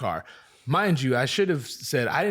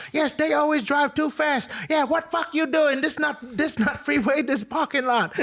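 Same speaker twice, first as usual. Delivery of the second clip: put-on high, loud caricatured Asian accent; mock Asian accent; 14 semitones higher, 3 dB louder than usual. Restaurant owner scolds the driver, high mock Asian accent. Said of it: "the Asian dude, the owner, comes out".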